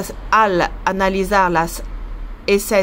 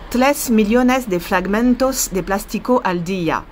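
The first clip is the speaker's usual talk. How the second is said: Spanish read with a strong French accent. Real, not acted. Reading a Spanish headline aloud to her viewers, in a French accent. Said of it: "ça va être vraiment l'accent français quand je parle espagnol".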